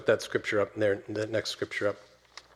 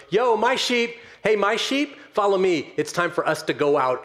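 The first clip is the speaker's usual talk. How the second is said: calling out to a flock; 8 semitones higher than usual. Acted. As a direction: call the sheep to come along, easing down toward the end. Shepherd calling his flock out.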